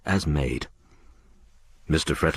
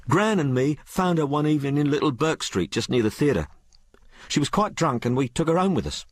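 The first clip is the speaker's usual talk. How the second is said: put-on high-pitched, colloquial working girl; working-class maid Sal; 8 semitones higher than usual. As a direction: tell it as an uneducated maid confiding in her mistress. Story figure Sal narrating.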